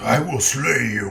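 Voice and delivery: deep, booming, rough monster voice, slow. Trying out a voice for a minotaur character: deep booming Trog voice. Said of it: "a deep, booming voice that snorts quite a lot".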